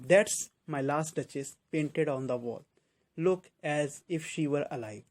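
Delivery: slow, deliberate verse reading; measured poem reading for a class; poem recitation. Acted. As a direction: take the lines very slowly.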